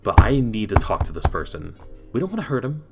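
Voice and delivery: measured captain making an insistent request; lightly voiced Ludwig, reasoning. Ludwig asks the governor for information, mildly insistent.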